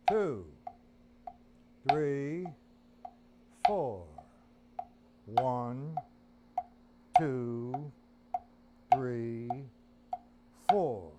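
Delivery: each count barked out on the beat; counted loudly. Shown as a demonstration. Drum teacher counting out loud to students. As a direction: call each count loudly over the drums. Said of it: "Left hand".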